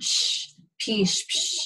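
a bare "sh", then "pish" with a long hushed end; voiceless drawn-out sh in "sh, pish, psh"; SH sound. Shown as a demonstration. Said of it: "It's a sh sound".

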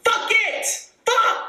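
high laughing curse, half joking; laughing outburst. Real, not acted. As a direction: laugh it off with a squeal. Laughing outburst, far higher.

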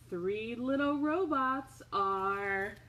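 usual speaking voice

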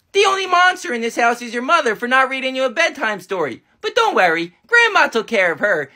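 low, smug grandma; a proud grandma boasting. Acted. Grandma tells Billy she punished mom, low.

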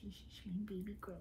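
quick soft whisper. Real, not acted. Owner cooing over her dog, whispered. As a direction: murmur fondly, barely voiced.

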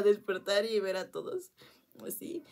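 hushed whisper, slow; whispered, slow recollection. Real, not acted. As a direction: breathe the words as if dazed on the floor. Recalling waking up on floor.

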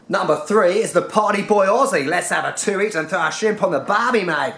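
lightly hammed-up Australian accent. Mocking the party boy Aussie backpacker, Australian accent. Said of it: "I'll stop the Australian accent now".

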